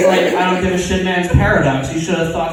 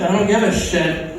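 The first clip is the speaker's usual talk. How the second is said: unbothered brush-off; couldn't-care-less superhero; indifferent. Acted. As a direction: shrug off the plea in an everyday voice. Superhero refuses, not caring.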